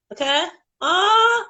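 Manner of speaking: high, loud squeal at the dog's antics; excited squeal. Real, not acted. Owner squealing as her excited dog jumps about. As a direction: shriek with delight as the dog goes wild. Dog goes wild on camera.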